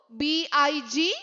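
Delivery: letter by letter, very slow; slow spelling drill. Shown as a demonstration. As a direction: spell each letter out for the class. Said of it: "നമ്മൾ പഠിച്ച വാക്കുകൾ ഏതൊക്കെയാ?".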